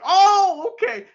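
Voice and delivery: high squeaky surprised oh okay. Retold or imitated. Fan handing over the chair, high mock surprise. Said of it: "And he's like".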